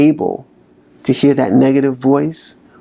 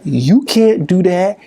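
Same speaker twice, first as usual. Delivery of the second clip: higher, slow sneering doubt; mock the voice that says no; nagging inner voice; 5 semitones higher, slower than usual. Coach voicing the inner critic, a sneering doubt. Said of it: "that you voice".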